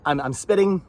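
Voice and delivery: phlegmy, throat full of mucus. Real, not acted. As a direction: talk through a phlegmy throat. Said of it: "I'm phlegmy".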